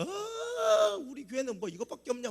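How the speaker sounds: muttered, hammed-up complaint; mock grumbling. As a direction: imitate whining church members. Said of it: "성도들은 원망하고 불평하는 거야".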